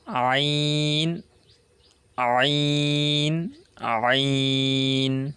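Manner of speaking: ain squeezed from the middle of the throat; throaty ain. Shown as a demonstration. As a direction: tighten mid-throat and voice ain. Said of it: "like that".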